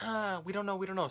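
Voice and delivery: high, flustered mock helplessness; family flustered. Relatives unsure about the AAA card, high flustered mock. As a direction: play the relatives as clueless and fretful. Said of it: "And they're like".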